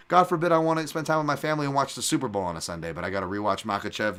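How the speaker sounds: quick mock disdain, easing toward the end; disdainful. Fight analyst grumbling about missing family time for tape, mock disdain.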